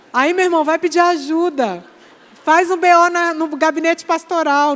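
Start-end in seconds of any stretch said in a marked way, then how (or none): 2.4-4.8 louder. Real, not acted. Preacher raises voice to joke.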